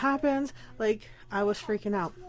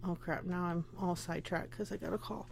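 laughing; 3 semitones lower, 10 dB quieter than usual. Real, not acted. Sidetracked by a phone call.

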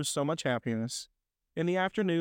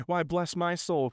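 slow, higher exclamation; astonished cry; 4 semitones higher than usual. Acted. Fred spots his uncle at the door, astonished. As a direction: exclaim in mild amazement, drawn out. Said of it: "cried Fred".

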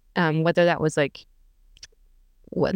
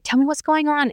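higher-pitched, caring doctor imitation; sweetly coaxing doctor; 8 semitones higher than usual. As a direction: gently invite a patient to open up, voice pitched up. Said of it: "she was so cute".

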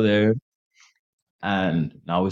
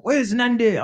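high-pitched mock wail; imitated drunk friend; 3 dB louder than usual. Drunk friend asking for his crush, imitated high wail. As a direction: call after your crush, high and needy.

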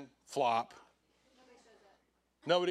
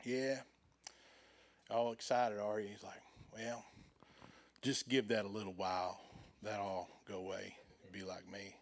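put-on old man; 3 semitones lower, 4 dB quieter than usual. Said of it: "this old man".

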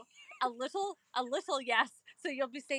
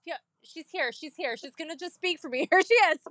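panicked traveller lightly acted, higher and hurried; Tessa; 5 semitones higher than usual. Friend phoning from Mexico for Spanish help, mock flustered. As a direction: play a flustered caller stalling for words. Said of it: "Tessa calls me".

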